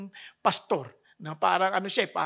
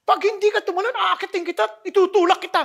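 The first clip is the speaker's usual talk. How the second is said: stern father; 11 semitones higher, 6 dB louder than usual. Retold or imitated. Father threatening playfully.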